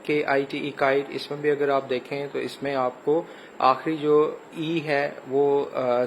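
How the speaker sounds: ordinary talk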